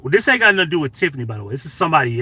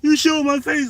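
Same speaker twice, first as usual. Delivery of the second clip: mocking; 13 semitones higher than usual. Mocking how women act.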